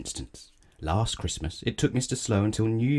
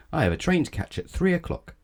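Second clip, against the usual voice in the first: haughty cry; 10 semitones higher than usual. Acted. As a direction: bark the order at the driver. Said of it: "cried Mister Uppity".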